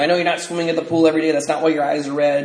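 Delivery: quick mock scolding; retold berating mom. Son retelling mom's suspicion about red eyes, rapid mock scolding. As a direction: imitate mom rattling off an accusation. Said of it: "just berating me about all this".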